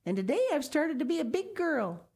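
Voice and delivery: put-on high little girl's voice, proud. A narrator's reading. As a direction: boast like a small child. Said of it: "Sal called to the loon".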